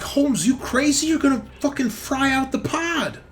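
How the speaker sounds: high-pitched alarmed yell; Hobbs. Acted. Game master as Hobbs warning the player off the incinerator, frantic yell. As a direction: shout it high and frantic, full force. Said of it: "he's like".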